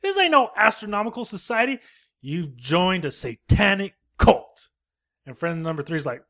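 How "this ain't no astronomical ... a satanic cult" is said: drawn-out slow outrage, lightly voiced; slow outraged accusation. Christopher Lee confronts friend three, slow mock outrage. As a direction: spell out the betrayal slowly. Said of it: "Christopher Lee's like".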